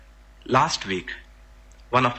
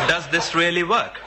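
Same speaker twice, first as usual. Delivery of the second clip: laughing; 6 semitones higher than usual. Retold or imitated. Laughing at own doubt.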